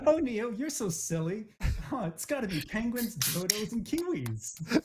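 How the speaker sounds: put-on high, girlish doll voice; playful high-pitched chatter, drawing out the last word; Barbie. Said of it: "as if you're Barbie or Ken".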